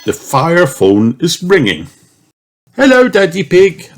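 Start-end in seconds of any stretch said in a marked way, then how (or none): 2.8-3.9 Miss Rabbit. Acted. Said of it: "answers Miss Rabbit".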